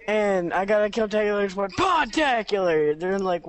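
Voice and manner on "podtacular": slow, stretched-out triumphant call; mock announcer shout. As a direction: call it out like a game's medal announcement. Acting out calling a game medal.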